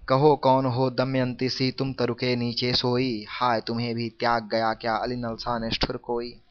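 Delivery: measured poem reading; formal recital of a verse couplet; verse recitation. Acted. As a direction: recite the lines in even, metred phrases.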